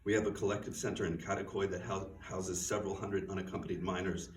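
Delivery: steady, earnest reading of Laura's speech; reading from own novel. Acted. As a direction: read it like a tired aid worker laying out the facts. Reads passage from her novel.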